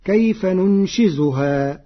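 كيف ننشزها recited slowly with a clear z sound; ننشزها بالزاي; Quran recitation with zay. Shown as a demonstration. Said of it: "قرأ ورش كلمة ننشزها".

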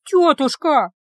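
high, loud drawn-out wail. A narrator's reading. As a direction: wail in protest to the aunt. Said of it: "взвыла Ива". (взвыла, высоко и громко)

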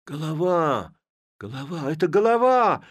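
high, loud alarmed cries; shouting alarm. A narrator's reading. Lads recognize the village head, shouting. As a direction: raise the alarm. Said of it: "закричали хлопцы".

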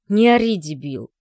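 a loud, harsh rebuke; angry hush. A narrator's reading. Father, afraid of neighbours, snaps at his yelling son. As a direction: shut him up, furious.

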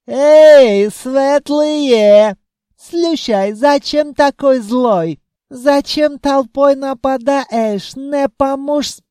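put-on high, loud Caucasian accent taunt. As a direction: yell across in a Caucasian accent. Jinn taunts elves, accented speech.

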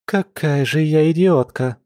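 moderately exasperated at oneself; self-reproach. A narrator's reading. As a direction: scold yourself with some heat. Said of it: "в сердцах пробормотала лиса".

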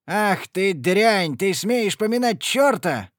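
roaring father. Acted. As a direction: roar at her for cursing. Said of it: "заревел отец". (отец в ярости ревёт на дочь)

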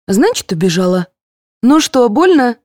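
lightly voiced cheerful nurse. A narrator's reading. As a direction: brush it off lightly. Nurse after injection.

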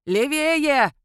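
громкий резкий окрик, выше обычного; рявкни команду на бегу; рявкает. A narrator's reading. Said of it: "рявкнул Спиридуш". (рявкает на бегу, громко и высоко)

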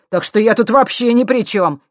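"ни при чём" shouted high and loud; loud insistent "ни при чём"; loud denial. Acted. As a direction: hammer out "ни при чём" in protest. Vitka's denial answered by Victoria.

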